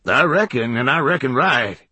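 lightly voiced rustic hermit; hermit insisting. A narrator's reading. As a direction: insist like a backwoods old man. Hermit insists about storm.

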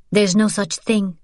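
bitter. Acted. Daughter answers her mother bitterly about the war. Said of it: "Sophie said bitterly".

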